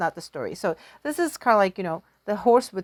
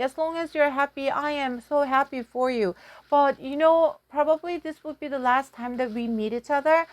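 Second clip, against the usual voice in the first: loving mother; 3 semitones higher than usual. Acted. Mother's farewell words.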